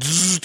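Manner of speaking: short buzzing "zzz"; imitated electric zap. Recounting the dream shock, imitated zap. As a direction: buzz like a live wire.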